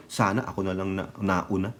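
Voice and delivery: low, soft imitated aside; muttered mock quote. Retelling rival's words in aside.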